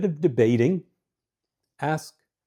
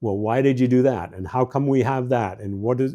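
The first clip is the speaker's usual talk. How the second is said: debating. Shown as a demonstration. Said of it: "the debate questions".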